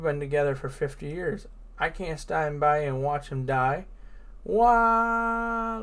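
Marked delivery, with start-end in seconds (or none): 4.4-5.8 high loud yell; Luffy yelling wildly. Acted. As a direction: let out a big yell. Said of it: "Luffy goes on".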